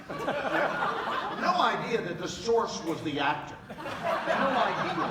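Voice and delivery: slow, high, laughing drawl. Real, not acted. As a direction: stretch it out while laughing. Laughing at the producers' confusion.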